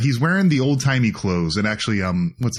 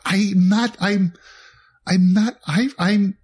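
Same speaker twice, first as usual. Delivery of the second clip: mock protest; 10 semitones higher than usual. Acting a miscast actor's protest.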